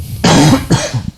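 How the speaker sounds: short dry cough into the mic. Real, not acted. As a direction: cough once, dry and sudden. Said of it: "desculpa a tosse".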